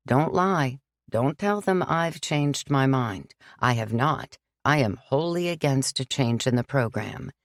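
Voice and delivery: put-on gently firm old priest; lightly voiced priest. Father John refusing Sam, calm and firm.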